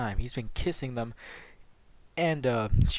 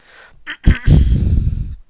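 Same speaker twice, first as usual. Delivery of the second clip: loud throat clearing; 11 semitones higher, 14 dB louder than usual. Real, not acted. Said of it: "God damn it".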